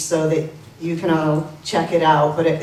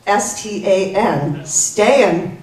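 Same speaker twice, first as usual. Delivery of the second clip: reading the pass; much slower than usual. Retold or imitated. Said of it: "and it said".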